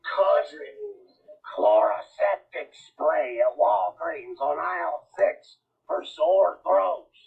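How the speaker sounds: slow, strained singer voice; hammed-up sore-throat crooner; mock country singer. Mocking singer's voice.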